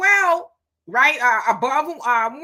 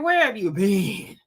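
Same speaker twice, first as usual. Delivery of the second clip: exasperated shout; 3 semitones higher, 5 dB louder than usual. Pretend. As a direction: yell it in disbelief. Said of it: "because I'm like".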